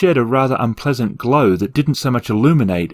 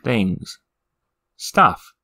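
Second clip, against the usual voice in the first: cautious evasive demon. Acted. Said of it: "said the demon cautiously".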